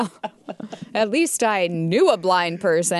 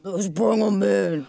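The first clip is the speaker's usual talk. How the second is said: more enthusiasm. Shown as a demonstration. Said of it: "can you say it with a little more enthusiasm".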